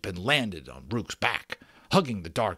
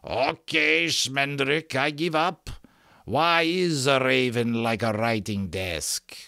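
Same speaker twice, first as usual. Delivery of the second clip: higher, put-on gritty character voice; gritty rough voice; 6 semitones higher, 4 dB louder than usual. A narrator's reading. Rook calling to Schmendrick that he gives up, gritty rough voice. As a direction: grate it out like a boat bottom on pebbles. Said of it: "like a boat bottom gritting on pebbles".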